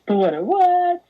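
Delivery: high, loud outraged what; loud high disbelieving squeal; rising shock. Pretend. Mock shocked reaction.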